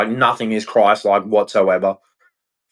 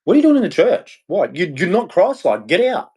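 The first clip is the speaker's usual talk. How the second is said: indignant outburst; 6 semitones higher than usual. Retold or imitated. Scolding hypocrites in church, high angry voice. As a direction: blast them out of the church. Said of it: "And I'm like".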